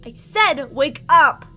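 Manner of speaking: slow, very loud enraged yell; furious shout. Acted. Captor screams at the captive who won't wake, furious. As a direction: blast the repeated order at them.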